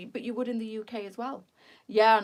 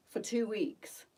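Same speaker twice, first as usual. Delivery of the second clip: breathy whisper, a secret about the dog; whispered aside; 3 semitones higher, slower than usual. Real, not acted. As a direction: lean in and whisper it.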